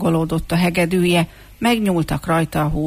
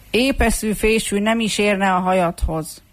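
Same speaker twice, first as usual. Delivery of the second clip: higher-pitched taunt; mocking; 4 semitones higher than usual. Comb calls after the greasy-haired hooligan, mockingly. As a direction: call a mild jeer after someone. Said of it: "gúnyosan kiáltott utána".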